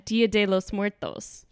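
careful Spanish pronunciation; Spanish accent. Real, not acted. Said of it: "best Spanish accent I've ever heard".

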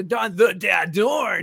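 hyped-up name callout; announcer voice. Shown as a demonstration. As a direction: belt the name like a ring announcer. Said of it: "throw it up".

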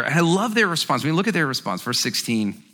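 usual speaking voice

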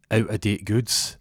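"out-of-date goods" said slowly and deliberately; measured accusation. Acted. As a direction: lay out "out-of-date goods" as a slow charge. Detective slowly lays out the charge.

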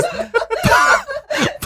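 sudden squealing laugh; high burst of laughter. Real, not acted. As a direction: break into giggles. Laughing at awkward moment.

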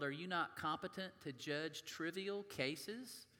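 measured, earnest reading from the pulpit; preacher reading Corinthians aloud to the congregation; scripture reading. Acted. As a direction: read the passage to the church, deliberately.

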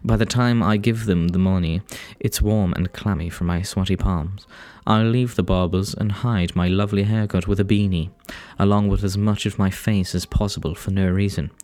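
put-on English reading voice; read-aloud storytelling, English accent. Real, not acted. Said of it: "easier to read in an English accent".

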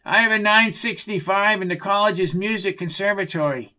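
a hint of stiff cop-speak; officious radio report. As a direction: report the code like a self-important officer.

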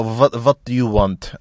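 rough mock German accent, V for W; vaguely German-accented chef; muddled German accent. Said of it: "I don't know why a German accent".

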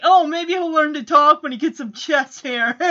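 imitated teasing jab. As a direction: tease him like a cocky bully. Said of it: "Chip is just teasing him".

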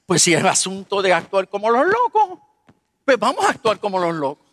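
dry, mocking retort to the Lord; mild mock sarcasm; sarcastic. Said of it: "así yo sarcástico".

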